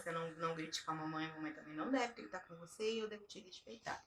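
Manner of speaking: put-on soft, low mother-to-child voice; gentle explaining. Mother explaining respect to her little daughter, soft and gentle. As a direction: calmly lay down a shared rule, quietly. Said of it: "E aí eu explico".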